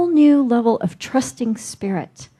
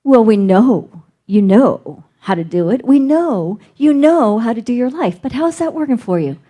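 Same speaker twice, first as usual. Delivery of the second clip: voice of Spirit; 4 semitones higher than usual. Retold or imitated. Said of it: "I'm hearing these voices in my head".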